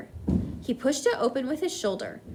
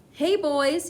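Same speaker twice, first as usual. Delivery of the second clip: shouted; 5 semitones higher, 4 dB louder than usual. A narrator's reading. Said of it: "he shouted".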